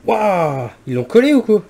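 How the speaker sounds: loud, high strained exclaim; straining to open. Real, not acted. Prying the cap with screwdriver.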